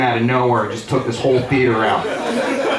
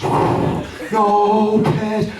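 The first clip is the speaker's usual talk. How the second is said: higher, stretched slow-motion cry; 9 semitones higher than usual. Retold or imitated. Watching his buddy fly at the trash can, slow-motion cry. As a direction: drag it out like a slowed-down film. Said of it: "seeing this in slow motion".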